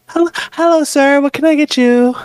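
bright shop-counter welcome, lightly played; barista greeting. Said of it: "this is Starbucks".

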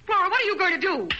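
high frightened cry; alarmed. Acted. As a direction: voice jumps up in alarm. Sees Flora about to strike.

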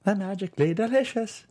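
understated mock-Irish cereal slogan; Irish accent. Cohost recalls Lucky Charms commercial in a light Irish accent. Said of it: "that's Lucky Charms".

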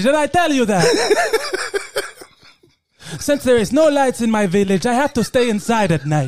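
put-on African accent, deadpan. Villager introducing himself by name, African accent. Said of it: "got to do that accent".

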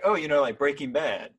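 loud, bright quoted answer; eager answer. Retold or imitated. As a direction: say it like it's obvious. Fiance answering roommates excitedly.

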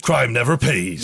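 slow mock American tagline; American accent. Host caps the slogan, mock American accent. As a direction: play an American promo announcer. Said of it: "in an American accent".

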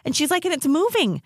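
high, frantic mimicry; retold exasperated panic, pitched high; worked up. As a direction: imitate someone driven crazy by a hidden noise. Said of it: "she gets real worked up real easy".

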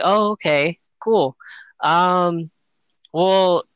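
a hint of the cheerful kid. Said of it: "innocent kid".

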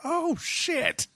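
retelling a ghost slamming the bathroom door, startled. Retold or imitated. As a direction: jump at a face in the door. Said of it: "You're like".

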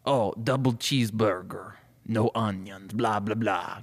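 lightly voiced cartoon vampire; a hint of Dracula accent. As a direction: order lunch as a hammy vampire. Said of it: "let me do my vampire voice".

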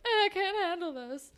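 high, put-on wail of a character fleeing; mock overwhelmed. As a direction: imitate someone who can't cope. Retold character runs away overwhelmed.

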